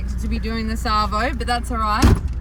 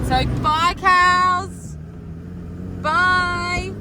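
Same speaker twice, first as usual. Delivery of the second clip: talking to animals; 7 semitones higher, 4 dB quieter, slower than usual. Acted. Waving goodbye to the cows.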